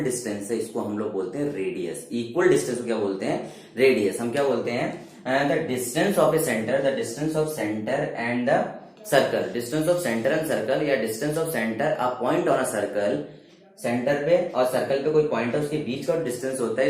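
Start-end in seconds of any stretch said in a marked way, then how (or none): 5.2-13.2 very slow, word by word, for note-taking; slow classroom dictation voice. Acted. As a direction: spell it out slowly so students can write. Teacher dictates definition slowly.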